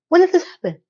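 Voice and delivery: high, incredulous when did this happen. Real, not acted. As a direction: pitch jumps up on when. Outraged disbelief at the plot.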